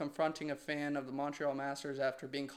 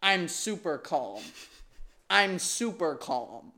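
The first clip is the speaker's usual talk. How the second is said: mock Medvedev; 5 dB louder than usual. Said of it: "Medvedev can be heard telling him".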